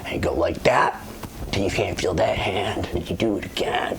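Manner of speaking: very low, hushed deadpan; a rocker, deadpan. Retold or imitated. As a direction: imitate a rocker giving gruff-serious instructions under his breath. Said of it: "he just looks at me deadpan".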